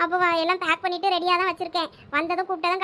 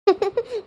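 brief giggle through the pique; short, teased laugh. Acted. Wife finally laughs, teased.

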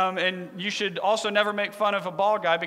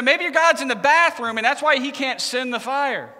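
raised-voice acted taunt; making fun; 4 semitones higher, 5 dB louder than usual. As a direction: needle the rivals, imitating a mocking prophet. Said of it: "he starts to make fun of them".

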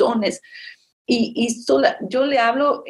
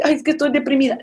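whiny depressed; 5 semitones higher, faster than usual. Retold or imitated. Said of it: "si te sientes triste".

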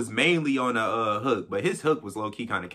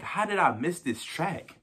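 disbelief; 6 semitones higher, 3 dB quieter than usual. Retold or imitated. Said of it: "I'm like".

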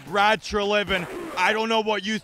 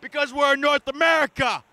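furious hockey fan yelling at his team; angry rant; 7 semitones higher than usual. Acted. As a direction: rage at the team like a heartbroken fan. Fan ranting after playoff loss.

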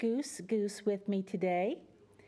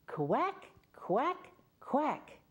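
bright, higher quack quack quack, leading a chant; duck quacking; 5 semitones higher, much slower than usual. Shown as a demonstration. Storyteller leads children in a chant, with higher playful quacks. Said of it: "can all of you say that with me".

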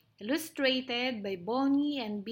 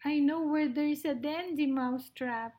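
higher, eager mouse voice; little mouse, eager; 4 semitones higher than usual. Acted. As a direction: offer help as a tiny mouse.

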